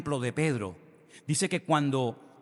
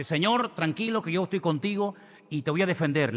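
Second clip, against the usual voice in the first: bold Peter; 4 semitones higher, 3 dB louder than usual. Retold or imitated. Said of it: "Allí se saca la espada y dice".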